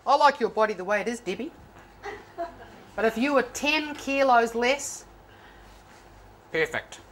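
a husband's sly backhanded remark; lightly voiced husband.

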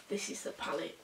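soft whispered presentation of the palette; hushed reveal. Real, not acted. Vlogger unveiling the palette to viewers, hushed whisper. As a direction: whisper it like showing off a treasure.

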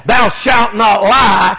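slow, booming scripture quote; solemn commandment. Acted. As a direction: pronounce it like a commandment from the pulpit. Preacher quoting commandment in sermon.

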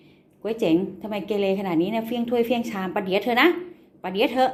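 tease-scold a naughty pet; mock scolding. (ดุเล่นๆแบบละคร)

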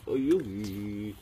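drawn-out, slow take. Shown as a demonstration. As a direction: stretch each word out slowly. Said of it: "repeated slowly".

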